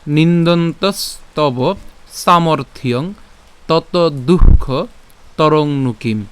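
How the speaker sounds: slow, measured Sanskrit verse recitation. Shown as a demonstration. Teacher presenting today's shloka to learners, slow deliberate recitation. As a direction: recite word by word, pausing between phrases. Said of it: "আজকের শ্লোকটি হলো".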